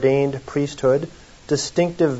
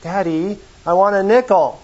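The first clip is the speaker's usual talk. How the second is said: mock crying little girl; 5 semitones higher than usual. Preacher playing a little girl crying to her daddy, mock whine. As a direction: imitate a child starting to cry for her nickel. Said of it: "she starts crying".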